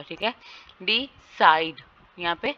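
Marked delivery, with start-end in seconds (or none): 0.8-1.8 डिसाइड with a louder, stressed साइड; stress on second syllable. Shown as a demonstration. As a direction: lean firmly on साइड in डिसाइड. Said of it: "साइड पे stress होगा".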